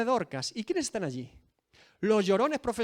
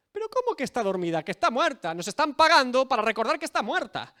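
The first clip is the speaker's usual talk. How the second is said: mocking mourners; 5 semitones higher, 4 dB louder than usual. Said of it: "Se empiezan a burlar de Jesús".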